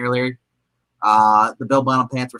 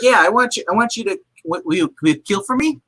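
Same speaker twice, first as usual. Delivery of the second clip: villain voice; 6 semitones higher than usual. Retold or imitated. Villain asking a killer.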